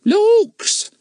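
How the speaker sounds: high, loud surprised exclamation; astonished. Acted. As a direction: gasp it out amazed. Mrs Cockles exclaiming.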